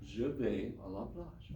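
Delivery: slow, careful learner's French; slow halting French. Shown as a demonstration. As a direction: sound out each word like a beginner. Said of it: "I'm gonna speak really slowly because I have to think each word".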